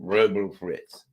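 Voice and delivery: slow, slurred mock mumble; mumbled imitation. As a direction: mumble it like a confused old man.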